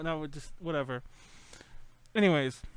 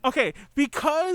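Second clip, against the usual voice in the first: Hinachi impression; 6 semitones higher than usual. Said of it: "That was Hinachi".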